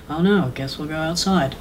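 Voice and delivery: soft, bored, deadpan delivery; deadpan Bill Murray. Retold or imitated. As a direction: dial it in like you're bored. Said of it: "all of his lines are just deadpan".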